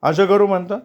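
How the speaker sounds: string the caller along, slowly; slow evasive phone reply, stalling for time; slow fob-off. Acted.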